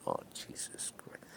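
breathless whispered gasp of alarm; retold shocked whisper. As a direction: hush it like you can't believe your eyes. Shocked as Sinatra gets hit.

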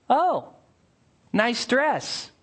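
fake sweetness. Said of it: "He who hates disguises it with his lips".

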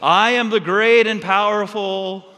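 hammed-up booming Wizard of Oz. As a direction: proclaim it into the microphone like a mighty wizard. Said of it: "he turns to the microphone and says".

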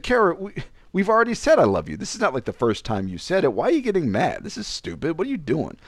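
high-pitched mock argument; retold exasperation. Boyfriend getting mad back at girlfriend, retold exasperation. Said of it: "So I'm getting mad back at her".

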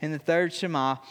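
measured, solemn Bible reading; scripture reading. Acted. Pastor reading scripture to the congregation, solemn reading. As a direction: read the passage aloud with weight.

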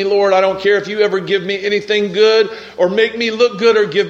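urgent, pleading prayer; impassioned prayer of surrender; fervent prayer. Real, not acted. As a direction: plead with God in rising fervour.

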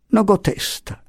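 high, helpless reply; plaintive little man. A narrator's reading. Little man declines to talk to Pasotti, plaintively. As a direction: plead off in a high voice. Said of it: "rispose l'ometto".

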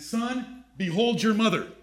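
gentle, with stress on "your"; tender. Shown as a demonstration. Preacher voices Jesus entrusting his mother to John.

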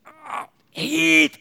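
a rising call into a dark room. Retold or imitated. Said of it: "it's starting to get louder".

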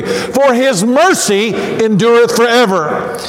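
slow, fervent congregational response; drawn-out, rousing refrain; leading the refrain. Real, not acted. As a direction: proclaim it slowly for all to join.

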